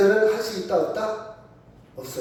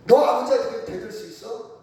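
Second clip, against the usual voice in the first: mildly acted scolding, higher-pitched; angry father; 4 semitones higher than usual. Father confronts son who talks back, mock indignant question. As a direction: challenge the son like an offended father. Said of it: "화가 났어".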